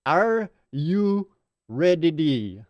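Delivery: lightly voiced Scottish accent with a rolled r on "ready"; a hint of Scottish, stretching "Are you"; mock Scottish. Host teasing Nick, mock Scottish accent. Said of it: "put this in words that Nick will understand".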